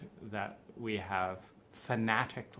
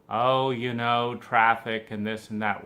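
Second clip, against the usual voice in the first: mock whiny complaint; 6 dB louder than usual. Mocks an annoying pity-party complainer.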